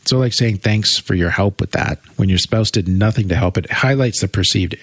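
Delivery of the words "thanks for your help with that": slow, understated sarcastic thanks; cold sarcasm. Shown as a demonstration. Spouse who did nothing to help, cold sarcasm. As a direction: thank them coolly, drawing it out slightly. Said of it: "adds this kinda cold, calculated".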